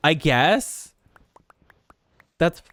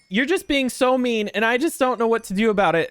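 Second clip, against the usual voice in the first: imitated upset complaint, higher and hurried toward the end; 5 semitones higher than usual. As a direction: mimic her wounded whining at you. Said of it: "she was so upset".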